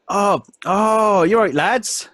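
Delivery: high-pitched, loud halfling voice; halfling's accent. Acted. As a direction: play the jolly little halfling boss at full pitch. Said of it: "this is his accent".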